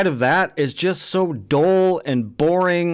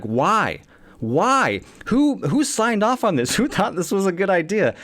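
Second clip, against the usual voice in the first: incredulous laughing; 5 semitones higher than usual. Retold or imitated. Ranting about the filmmakers.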